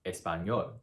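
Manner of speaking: español stressed on the last syllable, ÑOL; final-syllable stress. Shown as a demonstration. Teacher giving a second example, español stressed on ÑOL. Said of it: "the stress goes on the very last syllable".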